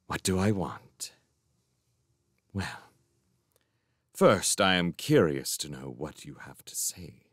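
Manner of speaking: low, soft, measured threat; controlled, chilly questioning; quiet menace. A narrator's reading. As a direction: drop to a dangerous softness. Magician regains his menacing softness.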